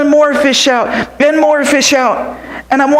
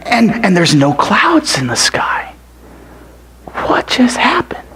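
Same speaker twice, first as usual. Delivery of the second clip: whispered awe. Acted. Boy staring at clear sky, whispered.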